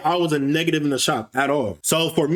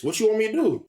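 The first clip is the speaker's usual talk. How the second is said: calm, even demo of his tone, a touch higher; showing his calm voice; 4 semitones higher, faster than usual. Shown as a demonstration. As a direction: show how level he kept it. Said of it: "Mind you, my voice is like this".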